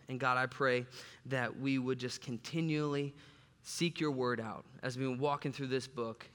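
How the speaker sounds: soft, hushed opening prayer. Acted. Pastor praying quietly over the church before the sermon. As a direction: pray it gently over the room.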